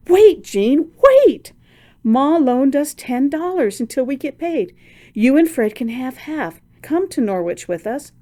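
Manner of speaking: very high, loud, stopping the door; urgent cry. A narrator's reading. Esther to angry friend at door, urgent excited cry. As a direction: cry out before it shuts. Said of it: "Esther cried".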